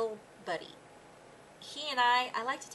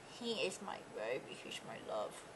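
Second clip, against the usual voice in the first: soft coo to dog; 8 semitones lower, 9 dB quieter than usual. Real, not acted. Cooing softly to her dog.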